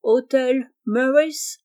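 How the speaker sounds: put-on slow, unruffled English-accented French; phlegmatic English accent. Fake Englishman answering Jeannot's questions, phlegmatic English accent. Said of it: "il répondait avec le même flegme".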